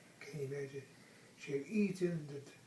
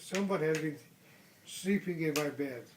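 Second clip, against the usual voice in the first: Papa Bear's great big voice; 4 dB louder than usual. Acted. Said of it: "in a great big voice".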